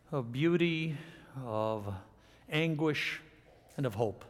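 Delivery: measured prayer, softening and dropping towards the amen; public prayer. Real, not acted. Preacher praying over the congregation after the reading, solemn prayer. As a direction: pray gently with pauses between phrases.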